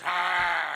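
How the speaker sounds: short acted-out shout; mock yell. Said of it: "he goes".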